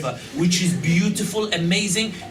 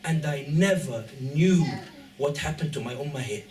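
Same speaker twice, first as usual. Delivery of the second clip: tearful quote; 4 semitones lower than usual. Retold or imitated. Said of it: "She said".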